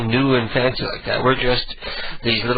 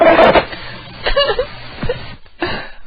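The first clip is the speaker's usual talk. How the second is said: high, wheezing burst of laughter; helpless laughter. Real, not acted. Host after playing a prank call, cracking up. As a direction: crack up completely.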